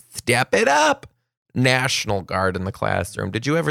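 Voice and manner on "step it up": much higher and louder second take; emphatic repeat. Acted. Rallying teachers to step up, high insistent call. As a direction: push it up hard as a rallying cry.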